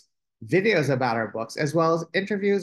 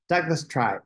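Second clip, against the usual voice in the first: usual speaking voice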